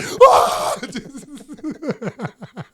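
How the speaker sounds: high mock scream; baby-like scream. Tripping rider strapped in too tight, mock baby scream. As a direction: let out a high, babyish wail. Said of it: "when I scream like a baby".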